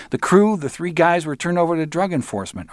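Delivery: put-on high-pitched voice of a young dealer; defensive Arnold. Arnold explains the loss to Roland, high defensive voice.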